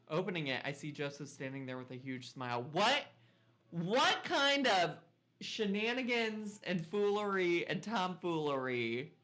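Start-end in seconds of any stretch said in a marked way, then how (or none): 2.7-9.1 high, loud and slow; incredulous. Real, not acted. Player baffled by a neighbor knocking again, incredulous. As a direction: stretch out the baffled what.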